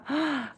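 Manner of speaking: quick, soft gasp of delight; impressed gasp. Real, not acted. Streamer reacting to a viewer's fruit trees, impressed gasp. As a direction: gasp in admiration.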